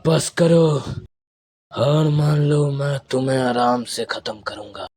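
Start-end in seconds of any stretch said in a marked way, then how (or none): 0.0-2.6 louder, higher battle command; forceful call to surrender; raised demand. Acted. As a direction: raise your voice at a stubborn foe. Urging enemy to surrender.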